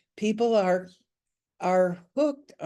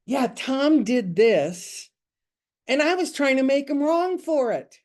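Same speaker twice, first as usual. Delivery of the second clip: cute retelling; 5 semitones higher, 4 dB louder than usual. Retold or imitated. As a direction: say it cutely, as if confessing with a smile. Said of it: "she said it so cute".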